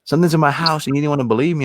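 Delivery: retold shout. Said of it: "she shouts".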